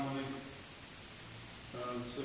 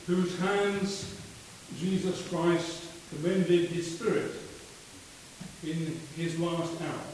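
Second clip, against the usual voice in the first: solemn prayer. Acted. Committal prayer at funeral.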